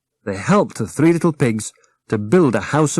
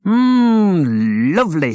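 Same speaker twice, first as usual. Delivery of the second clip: yummy; 8 semitones higher, 4 dB louder, much slower than usual. Acted. Eating jelly feast.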